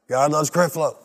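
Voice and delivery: rising to a loud, slow desperate cry; shouting faith against the fear; panicked declaration. Retold or imitated. Preacher on a storm-tossed cruise, building panicked shout. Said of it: "And he starts saying".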